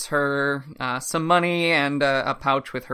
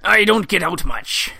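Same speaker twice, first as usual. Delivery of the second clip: whispered; 5 semitones higher, 6 dB louder than usual. Acted. Sailor judge replies.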